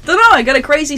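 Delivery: high, loud laughing reply; real amused helplessness, voice pitched right up. Real, not acted. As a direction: answer through real laughter. Laughing at friend's baffled question.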